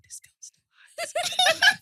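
high, very slow words dissolving in laughter; laughing mock quote. Wife quoting husband watching her, laughing helplessly. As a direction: imitate him while cracking up.

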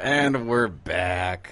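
slow, low robotic voice. Real, not acted. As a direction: sound like a robot. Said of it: "Listen to that robot voice there".

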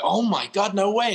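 high, loud, delighted disbelief; excited barista gasp. Retold or imitated. Barista hears a London accent, gushing high and loud. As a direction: gush like a thrilled American barista. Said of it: "She was like".

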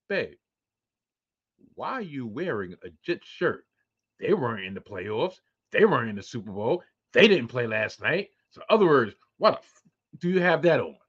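imitating wife. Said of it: "even my wife was like".

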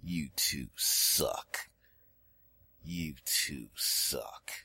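low, very slow, hushed mutter; menacing slow-motion aside; inner thought. Retold or imitated. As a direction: drag it out softly under the breath. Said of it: "in the back of my mind".

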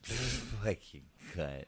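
put-on slow small-child echo; imitating toddler. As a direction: parrot it like a three-year-old. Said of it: "what do I hear out of the back seat".

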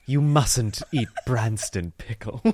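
slow, lightly imitated British friend; mock-disapproving, each word drawn out. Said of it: "her friend was like".

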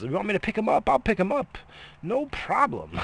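mock sweet. Mock sweet compliance to wife.

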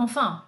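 enfant com an nasal, bem marcado; modelo de pronúncia. Shown as a demonstration. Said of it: "Olha lá, ó". (professora mostra enfant de novo)

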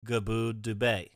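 "Gaboo Dubé", good day with ub inserted; Ubby Dubby pronunciation. Shown as a demonstration. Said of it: "So good day would be".

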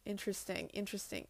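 soft thoughtful mutter to herself; musing mutter. Real, not acted. Noticing her own symptoms, muttering softly. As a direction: murmur it, lost in thought.

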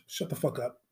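low, quiet, dismissive; muttered dismissal. Acted. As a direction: mutter it flatly at the dreamer. Dismissing Mars dream.

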